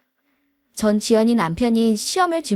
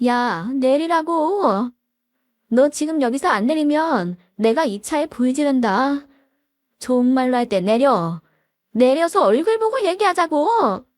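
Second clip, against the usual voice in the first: raised voice, climbing toward a shout by the end; mild mock yell. Wife on the car hood demanding he get out, building mock yell. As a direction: yell at the husband through the windshield, lightly acted. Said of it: "소리를 지르기 시작했습니다".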